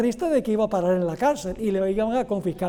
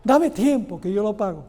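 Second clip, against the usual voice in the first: llorona-style plea. Acted. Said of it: "le forma la llorona".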